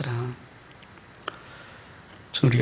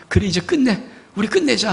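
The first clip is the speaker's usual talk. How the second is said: heartbroken God; 6 semitones higher than usual. Acted. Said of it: "하는 그 마음으로".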